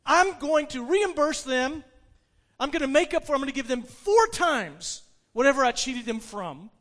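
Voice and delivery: resume the public vow with force; proclaiming. Acted. Zacchaeus continues his vow.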